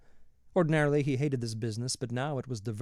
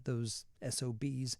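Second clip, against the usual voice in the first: much softer, slow under-the-breath curse; muttered aside; 8 dB quieter, slower than usual. A narrator's reading. Reading the paper aloud, he slips in a slow muttered curse. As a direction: drop to a slow quiet curse.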